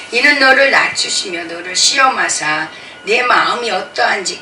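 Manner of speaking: loud, measured Bible reading; solemn scripture recitation. Acted. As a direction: proclaim the verse to the congregation.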